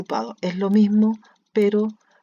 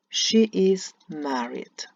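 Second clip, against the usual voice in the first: slow, each word spaced; slow model sentence; much slower than usual. Shown as a demonstration. Teacher modelling the sentence slowly for students. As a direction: read it slowly for the class. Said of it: "Es decir, is debe cambiar de lugar".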